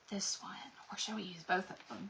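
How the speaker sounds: soft whispered question. Real, not acted. Crafter whispering to herself while choosing transfers, hushed. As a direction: breathe the question.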